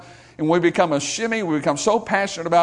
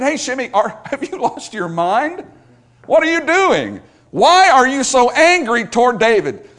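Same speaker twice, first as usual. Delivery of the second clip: higher and louder, slowing into disbelief; yelled challenge to a madman; incredulous shout; 7 semitones higher, 6 dB louder than usual. Retold or imitated. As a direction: call up the hill in disbelief. Preacher calls up to Shimei on the hillside.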